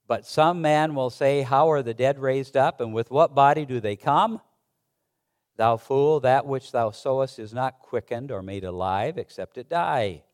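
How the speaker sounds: formal Bible reading to the congregation; scripture reading. Acted. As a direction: read it out like scripture from the pulpit. Pastor reads scripture aloud.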